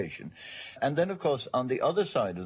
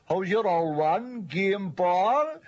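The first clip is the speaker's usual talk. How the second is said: raised, out-of-the-corner-of-the-mouth northside Cork accent; high, ironic Cork northside lilt; ironic Blackpool Cork accent; 7 semitones higher, slower than usual. Shown as a demonstration. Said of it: "spoken with irony and out of the corner".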